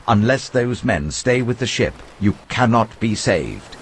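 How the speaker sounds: urgent warning. Acted. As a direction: lean on every word as a stern warning. Paul warns the centurion.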